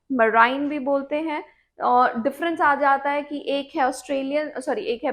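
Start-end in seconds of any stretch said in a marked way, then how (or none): 0.1-1.4 मराइन said with an eye sound, ma-RINE; marine said as marine-eye. Shown as a demonstration. Teacher gives the preferred form, मराइन with an eye sound. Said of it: "ज्यादातर हम इसको मराइन बोलते हैं".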